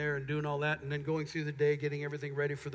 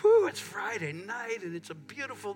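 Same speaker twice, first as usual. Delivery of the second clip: excited; 4 semitones higher than usual. Retold or imitated. Excited about sunny Friday.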